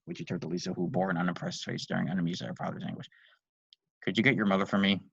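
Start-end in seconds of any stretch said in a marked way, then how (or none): 4.0-5.0 pleading. Acted. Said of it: "Lisa's dad pleaded".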